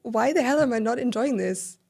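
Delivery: frustrated inner voice, pushed up and loud; self-scolding. Retold or imitated. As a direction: scold yourself to pull it together. Scolding herself in retold thoughts.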